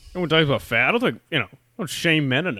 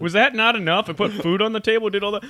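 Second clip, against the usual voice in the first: higher, indignant dad voice; pitched-up outraged dad; exasperated dad rant; 9 semitones higher, 4 dB louder than usual. Pretend. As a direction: rant as an offended father who gave everything.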